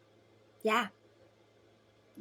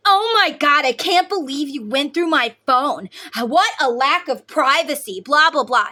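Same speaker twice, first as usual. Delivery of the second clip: much higher and louder, a hammed-up indignant husband; mocking husband's outrage; 5 semitones higher, 10 dB louder than usual. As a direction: parody him playing the victim. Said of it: "See, they turn it around on me".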